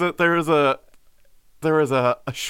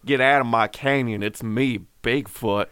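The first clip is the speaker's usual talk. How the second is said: Southern Bigfoot drawl; 5 semitones lower than usual. Pretend. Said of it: "Southern Bigfoot's got that slow drawl".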